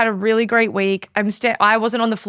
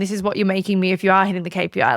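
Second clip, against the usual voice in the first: brisk contrast, leaning on "are"; stress on ARE; faster than usual. Retold or imitated. Boss showing staff what they earn, stress on "are". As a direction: punch the word "are" against the earlier negative.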